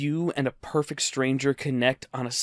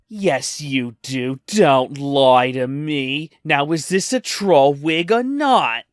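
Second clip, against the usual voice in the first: mock accusing customer; 3 dB louder, slower than usual. Woman accusing him of lying.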